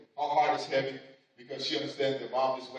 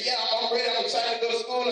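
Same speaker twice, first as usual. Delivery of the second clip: lightly voiced little girl, a bit higher; a hint of an eager child answering Mom; 6 semitones higher, 3 dB louder than usual.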